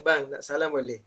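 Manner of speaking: wife softly asking her husband before work, gentle; gentle request. Shown as a demonstration. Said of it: "Patut isteri kata".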